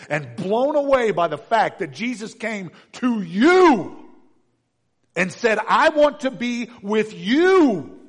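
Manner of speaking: loud, high, slow with awe; awed preaching. Real, not acted. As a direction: proclaim it in wonder, full voice. Preacher at full force, awe.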